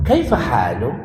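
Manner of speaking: "kaifa halu" swooping on halu; Arabic question tune on halu. Shown as a demonstration. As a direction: demonstrate correct Arabic intonation on halu. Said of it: "kita bisa mengatakan misalnya".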